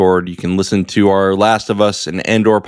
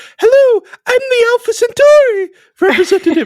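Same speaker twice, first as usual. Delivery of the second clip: very high, loud, shrill falsetto; 5 dB louder than usual. Telling someone how an old TV episode sounds, Alpha Centauri falsetto voice. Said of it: "It's just like a guy with a falsetto".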